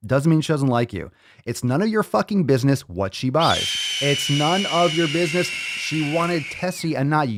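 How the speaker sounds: hammed-up angry rant at a rival; mock rant. Host tells the Fitness Falcon off, mock furious. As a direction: tell him off in mock fury.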